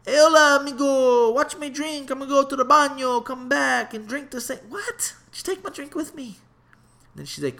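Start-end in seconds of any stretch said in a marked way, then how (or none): 0.1-6.4 silly high voice, much louder, hamming it up; high, loud mock tourist. Mocking what mom imagines, a loud high goofy tourist voice. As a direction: ham up a naive tourist asking a stranger. Mocking himself asking a stranger.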